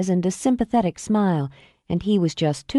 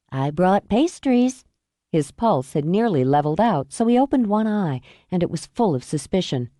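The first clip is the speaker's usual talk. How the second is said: Mom, teasing. Acted. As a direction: needle him gently. Mom chats with son.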